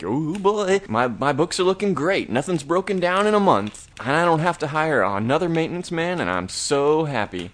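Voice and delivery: high, gushing boss voice; super psyched boss. Retold or imitated. Bowling alley boss gushing to Johnny, high and thrilled. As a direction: gush like a boss thrilled with his books. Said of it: "the bowling alley boss is super psyched".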